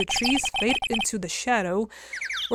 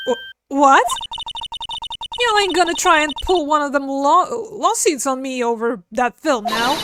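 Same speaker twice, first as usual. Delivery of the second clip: a touch of Southern twang; Southern woman voice; 5 semitones higher, 4 dB louder than usual. Acted. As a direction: play a sassy country gal. Defiant Southern character.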